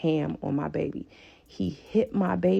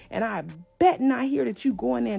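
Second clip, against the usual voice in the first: imitating a threatening parent, pitched up; insistent retold threat, hammering each order; stern warning; 5 semitones higher than usual. Father warning child to tell mother nothing, stern.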